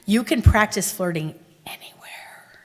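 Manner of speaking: confiding whisper. Real, not acted. Telling the class a secret tip, whispered.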